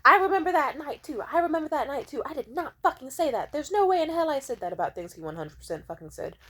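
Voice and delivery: high, loud sneering denial; mock whiny ex insisting; mocking his denial. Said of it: "he kept saying".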